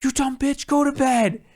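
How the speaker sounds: very high mock drunk sneer; drunk insult. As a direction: caricature the drunk guest insulting the girl. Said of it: "every time he sees this girl".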